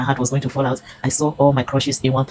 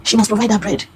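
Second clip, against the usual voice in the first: high-pitched insistent order; mock imperious demand; table-smashing demand; 7 semitones higher than usual. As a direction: imitate an indignant official laying down the law. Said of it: "the woman smashed her hand".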